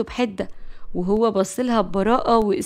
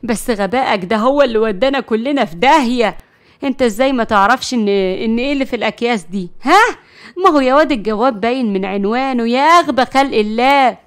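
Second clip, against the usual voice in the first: loud, scolding a foolish grandson; angry scolding; 5 dB louder than usual. Acted. Grandma scolding Moataz, loud and fed up. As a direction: tell him off for his stupidity.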